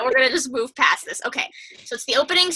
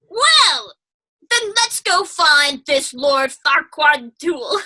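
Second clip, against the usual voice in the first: slow, louder ogre resolve; a hint of a fed-up ogre setting off; lightly voiced Shrek; 3 semitones higher, 4 dB louder, much slower than usual. Shrek answers in retold scene.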